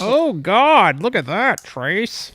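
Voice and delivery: loud, high delighted squeal; thrilled at the mess; excited. Real, not acted. Can fizzes over.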